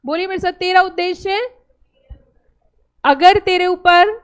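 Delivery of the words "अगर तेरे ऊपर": loud and slow. Shown as a demonstration. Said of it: "जोर से बोलो".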